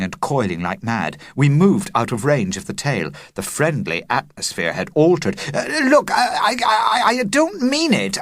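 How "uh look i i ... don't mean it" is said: much higher, stammering plea; scared boy pleading, high; frightened cry. A narrator's reading. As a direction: stutter out a panicked denial. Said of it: "I cried".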